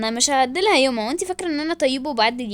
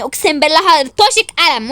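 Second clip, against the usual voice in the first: angry threat; 5 dB louder than usual. Acted. Threatens a slap.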